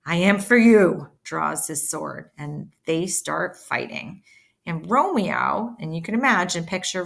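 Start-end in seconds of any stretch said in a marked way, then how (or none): 0.1-1.1 loud, defiant acceptance; challenge. Acted. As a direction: throw the challenge back.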